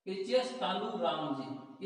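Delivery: एचएस तालू राम जी said slowly, each word drawn out; slow chant of the sutra; slow recitation. Shown as a demonstration. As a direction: drill it slowly for memorising. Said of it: "repeats sutra slowly".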